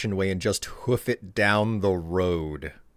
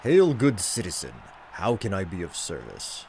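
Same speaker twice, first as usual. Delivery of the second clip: lightly voiced Imperial Guard greeting; amateur imitation of a formal game guard; 3 dB quieter than usual. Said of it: "sounding like an Imperial Guard".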